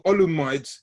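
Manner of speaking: Olumide's anglicised, ending like "rides"; teacher's mispronunciation. Retold or imitated. Teacher reporting progress to visitor, Olumide's mispronounced to rhyme with "rides". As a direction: say Olumide's with "-mides" rhyming with "rides". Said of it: "His name is not Olumide".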